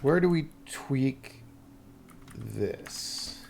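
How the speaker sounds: ordinary delivery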